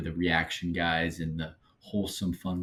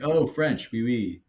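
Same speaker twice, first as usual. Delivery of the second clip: mock American French; 4 semitones higher, 3 dB louder, slower than usual. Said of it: "Americans just like".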